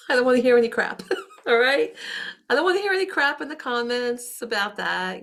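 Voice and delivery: laughing. Real, not acted. Mock warning to commenters.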